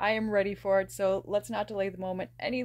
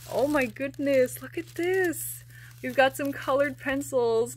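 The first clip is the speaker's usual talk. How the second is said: delighted gasp; 4 semitones higher, 3 dB louder than usual. Real, not acted. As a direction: let the delight spill out, stretched. Delighted at gift colored pencils.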